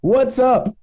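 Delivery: wry sitcom host setup; Seinfeld voice. Pretend. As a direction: ham up a sitcom standup opener. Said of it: "In my Seinfeld voice".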